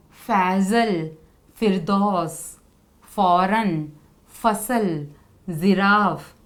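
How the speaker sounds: teacher models फ़ as an English f; f with nukta. Shown as a demonstration. Teacher reading nukta words with a clear f to students. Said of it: "फ की sound आ रही है".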